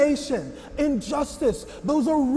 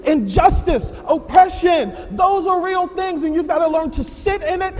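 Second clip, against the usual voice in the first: rising rebuke; 4 semitones higher, 5 dB louder than usual. Acted. Preaching at him, voice rising.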